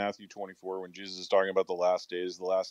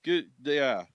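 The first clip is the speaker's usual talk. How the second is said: trucker voice; 10 semitones higher, 5 dB louder than usual. Retold or imitated. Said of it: "I would love to hear Brandon be like".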